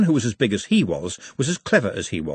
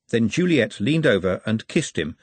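ordinary delivery

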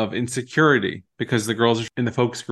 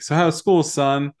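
imitating father; 4 semitones higher, 3 dB louder than usual. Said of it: "impersonating his father".

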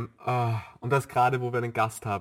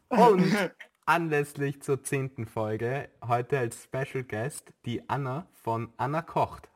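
host announcement; 2 semitones higher, slower than usual. Acted. Host announces special guest.

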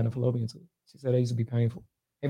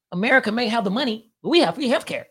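Canadian voice; 9 semitones higher than usual. Pretend. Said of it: "Is that your Canada voice?".

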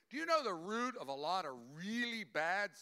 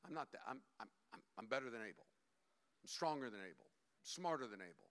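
sulky Cain boast; 10 semitones lower, 5 dB quieter, faster than usual. Acted. Cain boasting, voiced by preacher.

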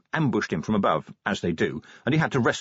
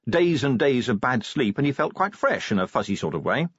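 ordinary delivery

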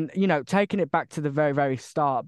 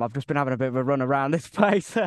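out of breath; faster than usual. Real, not acted. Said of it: "If I sound a bit out of breath, I am".

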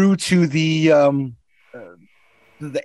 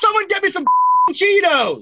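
stoner voice. Pretend. Stoner munchies voice joke.

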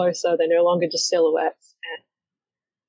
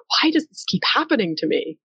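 higher, swooping mock lament; exasperated wail; 5 semitones higher than usual. Character in graveyard holding cookies, mock exasperated wail. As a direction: plaintively bemoan your luck, pitch swooping up. Voicing a put-upon character's complaint.

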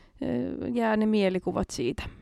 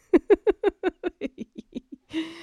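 high laugh rising at the end; real laughter after the punchline; laughing fit; 10 semitones higher than usual. Real, not acted. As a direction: dissolve into laughter. Laughing at own joke.

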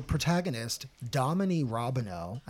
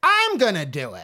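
laughing mock declaration; 6 semitones higher, 6 dB louder than usual. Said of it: "I'm like".

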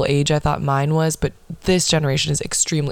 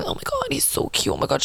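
much higher, softer gushing fan voice; mock fangirl squeal; 10 semitones higher, 5 dB quieter, faster than usual. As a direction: squeal it like a swooning teen fan. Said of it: "all these little simps going".

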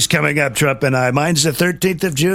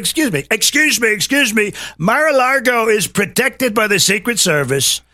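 indignant retort; 6 semitones higher than usual. Retold or imitated. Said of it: "It's like".

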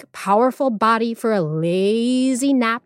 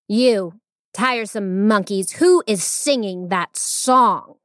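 demanding tigress; slower than usual. Acted. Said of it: "the Tiger Queen demanded".

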